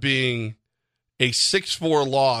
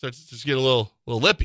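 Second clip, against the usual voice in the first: ordinary delivery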